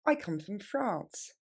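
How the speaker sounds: slow and clear; slow model phrase. Shown as a demonstration. Teacher repeating the answer slowly. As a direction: say it slowly again. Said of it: "On reprend".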